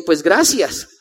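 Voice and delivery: a chuckle through the thanks; wry laughing thanks. Retold or imitated. Son thanks his mother for her grim wish, laughing. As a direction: laugh it off dryly.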